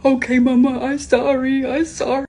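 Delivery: lightly voiced little girl apologizing; a hint of a small child saying sorry; mild impression of a tearful toddler daughter.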